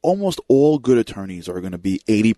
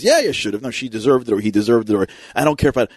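mildly raised, defensive retort; louder inner voice; faster than usual. Acted. Louder inner voice justifying a hurtful remark, insistent and hurried. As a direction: argue back in a quick, lifted voice. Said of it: "your louder voice says".

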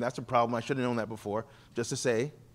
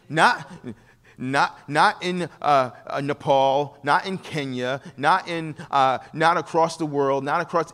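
louder, punching each not; emphatic insistence; 4 dB louder, slower than usual. Real, not acted. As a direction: preach it with rising force. Preacher insisting, building emphasis.

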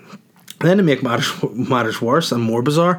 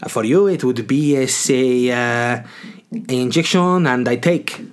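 put-on halting foreign-accented English; imitated dentist's accent; slower than usual. Dentist explaining treatment to patient, halting foreign accent. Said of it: "why I went Russian".

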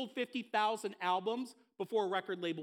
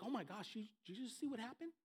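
stunned disciples; 10 dB quieter, faster than usual. Retold or imitated. Shocked disciples voiced in story.

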